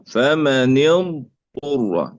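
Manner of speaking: فمن اضطر very slowly, ض held before ط; slow اضطر with ض and ط unmerged; separate lengthened dad. Shown as a demonstration. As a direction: draw out the ض in اضطر, then a clean ط. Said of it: "وهكذا".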